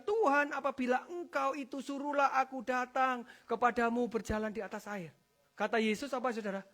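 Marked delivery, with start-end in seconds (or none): 0.0-5.1 raised, declaimed call to the Lord; loud, proclaiming scripture voice. Retold or imitated. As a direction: read it out as Peter crying across the water. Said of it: "Petrus berseru dan menjawab".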